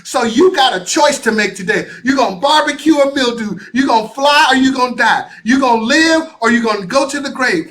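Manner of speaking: loud, fired-up preacher cadence; rally the crowd like a Sunday sermon; booming motivational pitch; preaching shout. Acted. Fiery motivational opener.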